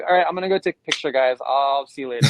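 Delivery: fast, eager goodbye to friends; a quick excited rush out of the words; rushed excitement. Retold or imitated. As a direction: hurry off, half-laughing with excitement. Rushing off to take photo.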